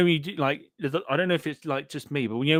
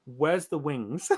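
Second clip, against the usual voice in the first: laughing disbelief; 3 semitones higher, 4 dB quieter, much slower than usual. Real, not acted. Baffled by photo of food.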